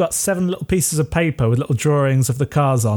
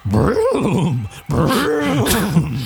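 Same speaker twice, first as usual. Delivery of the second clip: vroom like a car revving up; long rolled engine noise, rising and falling; imitated engine revving; 5 semitones higher than usual. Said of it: "she goes".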